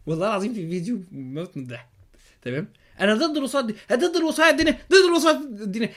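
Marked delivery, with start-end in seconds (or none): 3.0-5.9 mocking imitation. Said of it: "يقول لك".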